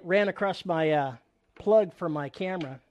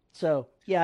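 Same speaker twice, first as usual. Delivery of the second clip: normal talking voice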